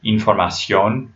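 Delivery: "información" with the last syllable, ción, stressed; Spanish "información", weight on the final syllable. Shown as a demonstration. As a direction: lean on the ó at the end of "información". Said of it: "stress that vowel syllable".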